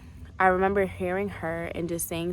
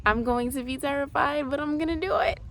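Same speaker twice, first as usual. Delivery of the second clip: determined; 6 semitones higher than usual. Retold or imitated. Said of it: "I made it up in my mind".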